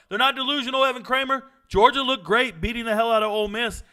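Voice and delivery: high, loud protest; emphatic rebuttal. Real, not acted. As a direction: jump in to defend the team. Rebuts a chatter's comment.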